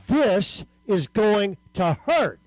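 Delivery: slow, spaced-out inner thought; slow realization. Retold or imitated. Boy thinking before squeezing the trigger, slow realization. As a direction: draw each word out deliberately. Retold dread before firing.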